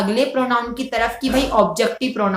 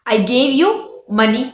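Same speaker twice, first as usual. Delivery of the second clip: slow dictation; much slower than usual. Shown as a demonstration. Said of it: "मैंने तुम्हें पैसे दिए".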